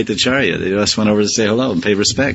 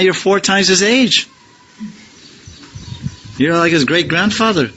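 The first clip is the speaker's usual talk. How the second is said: higher, earnest remonstrating voice; rephrased Gadadhar; 5 semitones higher than usual. Retold or imitated. Gadadhar reasoning with the Acharya, higher and pleading. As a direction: plead with the elder, pitched up. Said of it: "Siddhanta Saraswati says, he rephrases".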